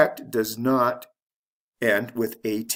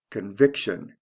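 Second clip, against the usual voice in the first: "conviction" stressed con-VIC-tion; stress before the ending; 3 semitones lower than usual. Shown as a demonstration. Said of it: "stress is right before the T I O N ending".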